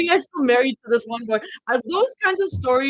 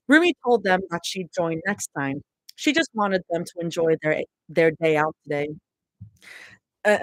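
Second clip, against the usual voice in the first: reading a story aloud; story narration. Acted. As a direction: read it like a novel.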